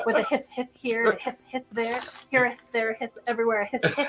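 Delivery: "hiss" said as hith, lisped th; lisping snake. Retold or imitated. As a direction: lisp every "hiss" into hith. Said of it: "he had a lisping snake".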